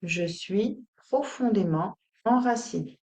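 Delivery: deliberate mantra, broken into short phrases; measured, grounded affirmation; spoken affirmation. Shown as a demonstration. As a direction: state it steadily, word group by word group. Affirmation given out to repeat.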